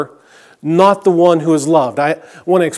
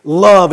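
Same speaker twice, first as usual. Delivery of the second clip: "Love." set apart, louder, falling; stop sign word; 5 dB louder than usual. Shown as a demonstration. Pastor making the congregation halt on the single word "Love.". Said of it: "that word love is kind of like a stop sign".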